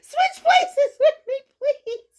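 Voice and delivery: pleading through giggles; laughing plea. Real, not acted. Asking Mary to switch seats, laughing hard.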